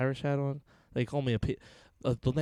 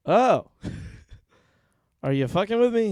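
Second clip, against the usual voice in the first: high, loud "oh" of mock shock; playfully incredulous, pitch jumping up; retold disbelief; 8 semitones higher, 5 dB louder than usual. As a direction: act out being stunned by wild news. Retold shock at Capitol news.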